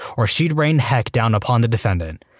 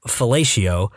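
halting and low, with awkward pauses around each uh; stalling awkwardly in a subdued voice; uncomfortable, hesitant; 3 semitones lower, slower than usual. Acted. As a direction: feel your way reluctantly toward an embarrassing word. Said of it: "starts to get a little uncomfortable".

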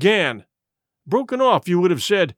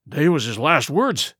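moaning; 4 semitones lower than usual. Acted. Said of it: "moaned Morgan".

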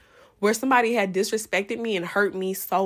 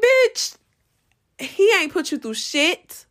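retold angry snap; 8 semitones higher, slower than usual. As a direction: bite back at the laughing girl. Snapping at the laughing girl.

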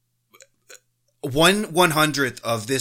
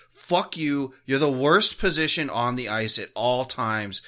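ordinary delivery

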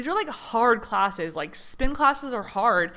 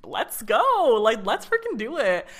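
rally yourself with a jolt of energy; energized; 4 dB louder than usual. Retold or imitated. Mid spin class with a new energy jolt: loud hype. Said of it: "this whole other energy jolt".

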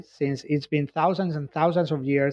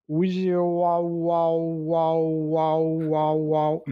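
eerie ghost voice; much slower than usual. Acted. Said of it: "Marcias is talking".

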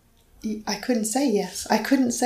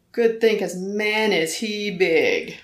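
slow, drawn-out sick man's voice; Tony's slow voice; slower than usual. Retold or imitated. Retelling husband's words, a slow drawn sick man's voice. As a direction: ease the words out like a man on heavy medication.

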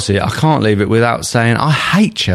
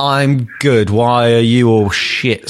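arrogant captain; 3 semitones higher, slower than usual. Retold or imitated. Pundit mocks a smug captain, arrogant drawl. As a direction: lord it over your teammates. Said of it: "Cristiano Ronaldo style captain".

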